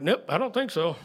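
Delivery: laughing refusal. Retold or imitated. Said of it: "and we're like".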